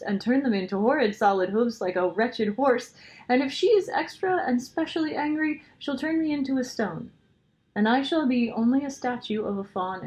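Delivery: crying faun. A narrator's reading. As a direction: wail through the tears as the fears pile up. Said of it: "beginning to cry again".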